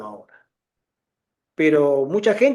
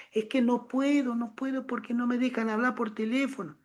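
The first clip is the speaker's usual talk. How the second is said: imitating a hushed, secret phone call; much softer, higher voice of a mother afraid to be overheard; voz bajita; 5 semitones higher, 11 dB quieter than usual. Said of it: "llamar escondida y en voz bajita". (vocecita baja, a escondidas)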